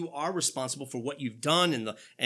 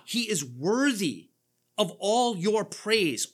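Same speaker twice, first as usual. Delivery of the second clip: slow, louder, weighty; exalting; 4 semitones higher, 4 dB louder, slower than usual. Real, not acted. Preacher exalts God before the congregation, slow and ringing. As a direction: let each word ring out.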